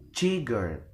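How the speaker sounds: "cigarette" wrongly stressed on first syllable CI. Shown as a demonstration. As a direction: punch CI, let "garette" drop. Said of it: "We will never".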